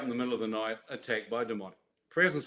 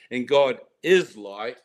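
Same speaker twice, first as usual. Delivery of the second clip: awed revelation; 7 dB louder, slower than usual. Real, not acted. Overwhelmed revelation before bursting into tears.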